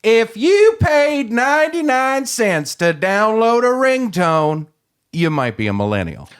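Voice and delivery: slow, loud, high stage delivery; stand-up punchline. Pretend. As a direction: sell the joke to the crowd. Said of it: "give it a shot".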